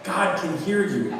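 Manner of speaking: put-on a small boy calmly telling his aunt, slowly; gentle child. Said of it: "and said".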